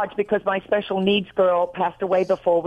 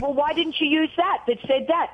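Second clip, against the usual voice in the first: higher-pitched retold scolding; mock exasperation; 6 semitones higher than usual. Wife retelling a spat with her husband, exasperated. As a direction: replay asking a husband why, in mild exasperation.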